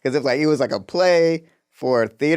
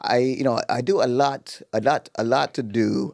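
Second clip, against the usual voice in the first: slow mock-British accent; Idris Elba; slower than usual. Busy actor talking to Terrence, slow mock British accent. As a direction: draw it out in an amateur British accent. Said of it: "what's going on with your Idris Elba".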